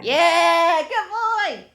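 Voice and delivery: loud, high cheer for a pet; gushing praise. Real, not acted. Praising the dog as good boy, loud high gushing. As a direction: squeal it proudly at the dog.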